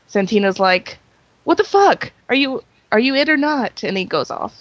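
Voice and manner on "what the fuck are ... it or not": higher-pitched mock bafflement; exasperated disbelief. Podcaster retelling a wrestler's confused outburst, mock exasperated. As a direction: imitate someone thrown by a contradictory answer.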